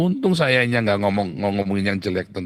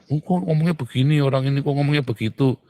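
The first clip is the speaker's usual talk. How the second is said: higher-pitched mock questioning; lightly acted, higher querying voice; people questioning; 5 semitones higher than usual. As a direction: imitate puzzled people asking around. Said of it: "orang-orang nanya".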